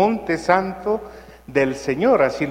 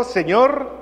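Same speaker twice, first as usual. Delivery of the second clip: calling out; 7 semitones higher than usual. Shown as a demonstration. Priest asks the congregation how she said it, calling out. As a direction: cry out Señor to get his attention. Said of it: "A ver, ¿cómo le dijo?".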